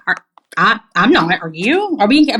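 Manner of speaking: retelling her panic at the odd question; flustered confusion. Retold or imitated. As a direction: trip over the words, caught off guard. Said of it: "And I was like".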